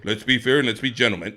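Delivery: mock-polite aside, dropped in pitch; mocking gentleman. Mocking the idea of fair fighting.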